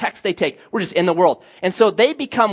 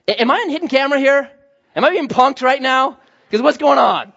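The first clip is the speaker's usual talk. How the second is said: higher-pitched, baffled questioning; mock incredulous; 5 semitones higher, 3 dB louder than usual. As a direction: act out disbelief, as if being pranked. Buddy baffled by pastor's offer.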